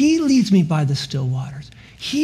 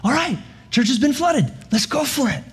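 eager, higher voice, fast at the end; joyful church; 5 semitones higher than usual. Retold or imitated. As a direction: play the church jumping to work. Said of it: "with just great joy".

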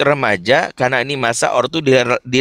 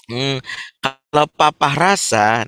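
gentle feeling tone; slower than usual. Shown as a demonstration. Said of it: "pakai perasaan".

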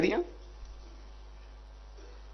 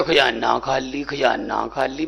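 mocking rivals' excuse; 4 semitones lower, 4 dB quieter, slower than usual. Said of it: "ਕਦੇ ਐਂ ਵੀ ਨਹੀਂ ਕਿਹਾ".

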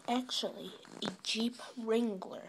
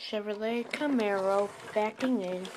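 deep voice; 5 dB louder than usual. Acted. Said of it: "that's a security system talking".

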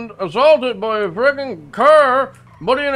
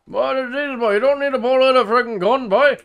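put-on thick rural accent. Local insists this is how he always talks, thick rural accent. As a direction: lean hard on the rural accent and the boy.

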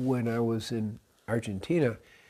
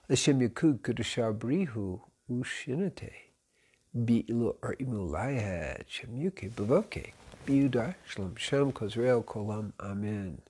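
Hebrew prayer, slightly softened; intoned opening prayer in Hebrew; recited prayer; 4 dB quieter than usual. Real, not acted. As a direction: recite a short blessing in Hebrew, evenly.

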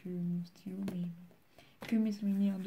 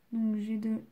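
slow, drawn-out self-dictation; very slow, elongated syllables while writing; writing aloud; 4 dB louder, much slower than usual. Real, not acted. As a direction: stretch the words as your pen moves. Says the words while writing them.

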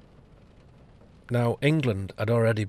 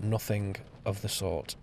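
repeated more softly, trailing off; quiet echo; 6 dB quieter than usual. Real, not acted. Speaker hammering home his point, quiet echo. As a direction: let the repeat sink down and fade. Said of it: "nothing of the sort (first take)".

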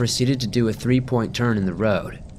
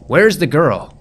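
stern demand; 5 semitones higher, 8 dB louder, slower than usual. Acted. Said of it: "said the deputy".

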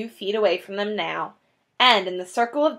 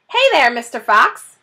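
yelled; 3 semitones higher, 6 dB louder than usual. A narrator's reading. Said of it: "yelled Bunce".

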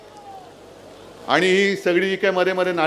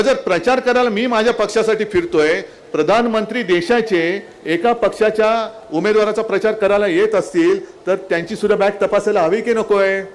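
fiery rally speech. Real, not acted. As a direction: rouse the crowd with rising anger. Rally climax against prime minister. (जोशपूर्ण प्रचारसभेचं भाषण)

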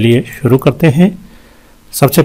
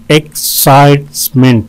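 "एक्साइटमेंट" in three separate beats; syllable breakdown. Shown as a demonstration. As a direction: pause between syllables of "एक्साइटमेंट". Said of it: "तीन syllable हैं". ("एक्साइटमेंट" हर हिस्सा अलग करके)

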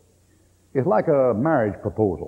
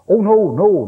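higher, louder mock denial; hasty protest; 6 semitones higher, 6 dB louder, slower than usual. Acted protest to the preacher's question.

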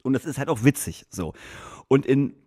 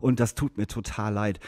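much softer, low, remorseful mumble; mock sheepish apology; sheepish confession; 4 semitones lower, 7 dB quieter than usual. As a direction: confess quietly like a guilty guy. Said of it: "sagt so".

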